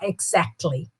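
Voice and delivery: "exactly" as "ig-ZACT-ly", low and falling; careful pronunciation. Shown as a demonstration. Teacher warning students about pronunciation, "exactly" stressed on ZACT. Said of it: "cuidado com essa pronúncia".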